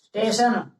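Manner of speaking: स्टेशन as ʈeʃən, no vowel in front; a clean स्टेशन; correct station. Shown as a demonstration. Teacher models the right word for the class. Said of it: "तो सही उच्चारण क्या होगा इसका".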